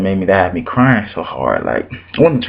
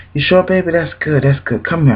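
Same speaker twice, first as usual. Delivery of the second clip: higher-pitched voicing of a caring elder; imitated motherly reassurance; 6 semitones higher than usual. Church lady about to give him something, imitated reassurance.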